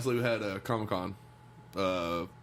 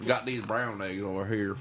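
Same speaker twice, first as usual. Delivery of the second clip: put-on southern redneck accent. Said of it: "southern redneck accent".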